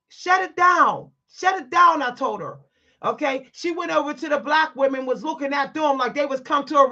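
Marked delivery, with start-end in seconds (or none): 0.1-2.0 loud and high, final order; loud command. Retold or imitated. Telling the clerk to stop, loud and high. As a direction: slam the argument shut.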